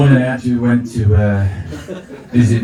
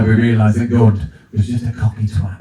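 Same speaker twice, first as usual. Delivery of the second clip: normal talking voice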